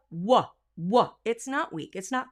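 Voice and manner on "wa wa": "wa" said firmly, not breathy; crisp W alone; solid W. Shown as a demonstration. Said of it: "When I say this word by itself".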